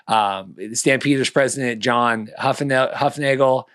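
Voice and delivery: speaking around new braces. Real, not acted. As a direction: braces making words clumsy. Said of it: "sorry, I can't talk with braces".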